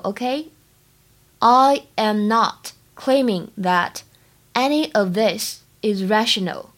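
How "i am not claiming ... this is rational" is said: slowed right down, word by word; slow model sentence for students; slow teaching read. Shown as a demonstration. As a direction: spell it out slowly for learners. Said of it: "整句话的发音技巧呢".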